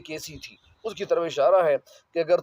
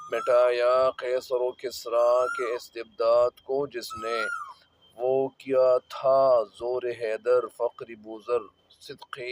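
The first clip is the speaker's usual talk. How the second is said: verse recitation; 6 semitones lower than usual. Acted. Recites the verse being explained.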